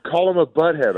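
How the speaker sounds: high kid impression, egging on; imitating little daughter. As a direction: goad them like a cheeky small kid. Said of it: "she's like".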